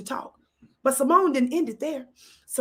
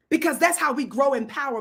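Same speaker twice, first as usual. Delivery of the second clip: ordinary delivery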